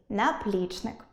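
наплічник as наПЛІЧник; наплічник softly, middle syllable stressed; correct stress. Shown as a demonstration. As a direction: settle on ПЛІЧ in наплічник. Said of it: "саме другий варіант правильний".

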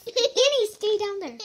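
high, laughing call to Annie. Real, not acted. Telling little Annie to stay down, laughing. Calling to child nearby.

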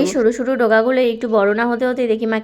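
talking with a toothbrush in mouth; while brushing teeth. Real, not acted. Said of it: "brush করতে করতে". (দাঁত brush করতে করতে কথা)

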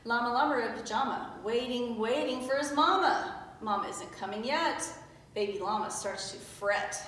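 put-on lilting read-aloud for small children; storybook reading. A narrator's reading. Teacher reading a picture book to pupils, storybook voice. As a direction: read it out in easy rhyme.

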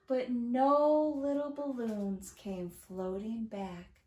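slow, lilting storytime reading; singsong, drawn-out verse; children's rhyme reading. A narrator's reading. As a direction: read a counting rhyme to little ones. Reads a counting rhyme aloud.

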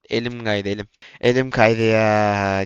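very slow, stretched my hand slipped; drawn-out lament. Real, not acted. Gamer mourning a slip that lost the round, drawn-out lament. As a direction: drag Elim kaydı ya out in mock sorrow.

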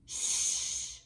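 unvoiced hush for the sleeping town; shushing. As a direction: hush the class, people are asleep. Hushing, people are asleep.

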